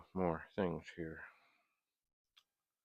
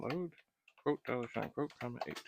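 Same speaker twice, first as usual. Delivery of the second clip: dictating; 4 semitones higher than usual. Shown as a demonstration. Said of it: "we'll type in".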